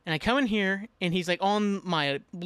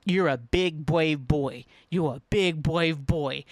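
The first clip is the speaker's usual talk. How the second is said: slow, deliberate self-encouragement; self pep talk; much slower than usual. Retold or imitated. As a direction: talk yourself into courage, drawing out each word. Pep-talking himself in the hallway.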